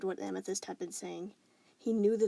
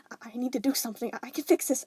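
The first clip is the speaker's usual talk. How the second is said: stuttering panic; 4 semitones higher, 4 dB louder, faster than usual. Acted. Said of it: "stuttering, breathless".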